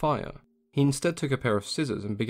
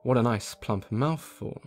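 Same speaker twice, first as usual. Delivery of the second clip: wolf thinking; slower than usual. Acted. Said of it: "The wolf thought to himself".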